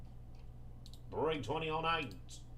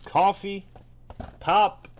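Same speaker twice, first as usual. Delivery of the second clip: real mock-horror shout; loud exasperated list; 2 semitones higher, 8 dB louder, slower than usual. Real, not acted. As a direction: call out every stain like a disaster. Listing jersey stains loudly.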